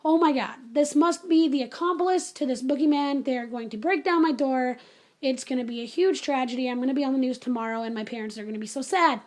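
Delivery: mock-panicked catastrophizing, easing off toward the end; retold doom spiral; instant pessimist. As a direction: spin out the worst case. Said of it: "instant pessimist mode".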